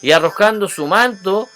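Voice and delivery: loud, animated Bible reading; emphatic scripture reading. A narrator's reading. Preacher reads the Bartimeo story to listeners, emphatic and loud. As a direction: read the verses out with ringing emphasis.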